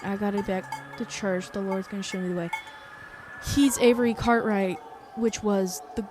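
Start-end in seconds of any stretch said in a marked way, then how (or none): 0.0-2.5 put-on light southern accent, proud self-introduction. Avery Cartwright vows to rise again, light southern accent. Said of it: "I hope you like my southern accent".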